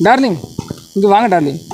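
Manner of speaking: high sweet darling coo. Real, not acted. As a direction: coo the dog over. Sweet-talking the dog.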